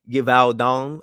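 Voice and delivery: French accent on just this word; put-on French accent. Real, not acted. Reading out the perfume house's name, put-on French accent. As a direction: make the company name sound perfumey and French. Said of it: "accent on just specific words".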